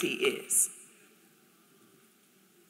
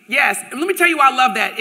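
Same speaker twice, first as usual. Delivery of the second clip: excited; 3 semitones higher, 6 dB louder, faster than usual. Real, not acted. Enthused to crowd.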